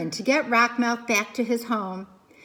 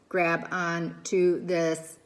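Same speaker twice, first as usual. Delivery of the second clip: calm robot voice; 5 semitones lower, slower than usual. Acted. Robot reaching out calmly.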